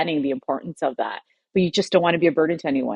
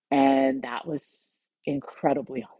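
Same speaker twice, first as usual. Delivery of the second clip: choking up; slower than usual. Real, not acted. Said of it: "I'm choking up".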